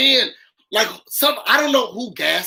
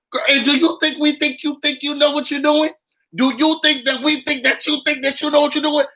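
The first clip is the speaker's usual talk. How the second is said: taunting; 5 semitones higher than usual. Real, not acted. Mocking tongue-twister taunt.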